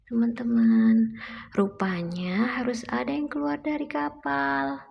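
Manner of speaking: put-on reading to a toddler. Mother reads picture book aloud.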